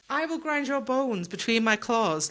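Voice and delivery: mock-threaten like a clawed monster; creature's threat.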